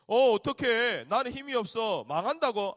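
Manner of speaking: loud, high panicked wail, slow at first; mock panic. Pastor voices the Israelites in hammed-up panic. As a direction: play the frightened people.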